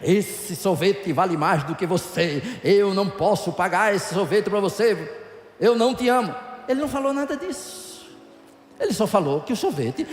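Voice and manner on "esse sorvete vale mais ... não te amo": mock the husband with a grave, theatrical tone; hammed-up husband pronouncing a verdict; put-on stern voice. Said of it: "fez essa impostação de voz".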